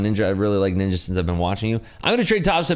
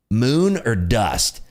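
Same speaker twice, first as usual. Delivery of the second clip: slow, drawn out; imitated friend; much slower than usual. Friend answering the streamer, slow deadpan mock. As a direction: stretch each word like a mantra. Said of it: "and he goes".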